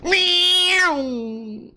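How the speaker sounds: high, whining engine noise; long high vocal vroom; imitated car rev. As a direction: imitate a car revving past. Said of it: "and then goes".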